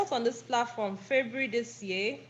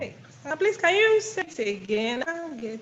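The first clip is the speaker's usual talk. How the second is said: choppy bad connection; call dropping out; 4 semitones higher than usual. Real, not acted. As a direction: voice breaking up on the line. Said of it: "Network is bad".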